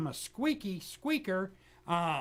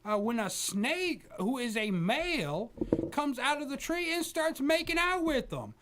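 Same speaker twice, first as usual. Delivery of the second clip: mock angry old preacher; 3 semitones higher than usual. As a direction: scold the interrupting host in a mock rage. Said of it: "Pat, are you there?".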